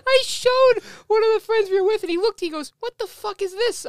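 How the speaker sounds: telling the end while laughing hard. Real, not acted. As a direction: laugh through the whole story. Storyteller laughing helplessly.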